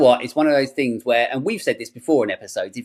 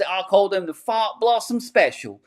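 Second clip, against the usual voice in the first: quoting the villain; 7 semitones higher than usual. Retold or imitated. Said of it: "he goes".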